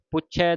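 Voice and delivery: ਪੁੱਛੈ ending on an open ai; careful pronunciation. Shown as a demonstration. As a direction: open the final vowel of ਪੁੱਛੈ. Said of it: "ਦਲਾਵਾਂ ਦੇ ਨਾਲ ਉਚਾਰਨ ਕਰਨਾ".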